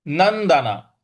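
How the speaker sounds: नंदना with the half न struck; stress on न्द. Shown as a demonstration. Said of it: "उस पर हमको आघात देना है". (न्द पर आघात)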